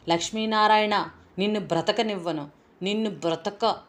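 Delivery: a lightly acted angry call; mild shout. Hero crying out against his enemy, mild acted shout. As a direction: hurl the name out, then the threat. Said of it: "అరుస్తున్నాను".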